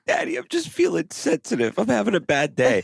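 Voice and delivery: put-on very high-pitched child voice at first; high little-kid quote, easing down; imitating little child. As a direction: voice a small child confiding in daddy. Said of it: "he was like".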